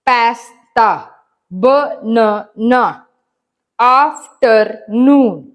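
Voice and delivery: slow, deliberate reading aloud to pupils; measured classroom dictation; slow textbook reading. Acted. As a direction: read each word out slowly for the class. Teacher reads examples and rule.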